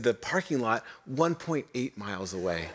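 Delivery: reading it out through a laugh. Real, not acted. Pastor reading the trail sign to the congregation, laughing. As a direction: laugh at the cruel mile marker.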